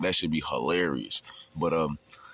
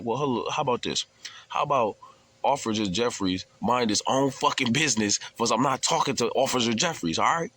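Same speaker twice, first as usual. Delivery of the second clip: high, sarcastic put-down of the officer; sarcastic taunt; 5 semitones higher than usual. Retold or imitated. Inmate taunting the guard in front of the cell, high sarcastic put-down. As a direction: talk down to the guard, pitched up and smug.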